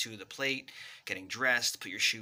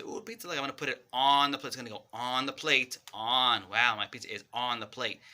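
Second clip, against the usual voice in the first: excited play talk; 4 dB louder than usual. Shown as a demonstration. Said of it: "emphasize that word".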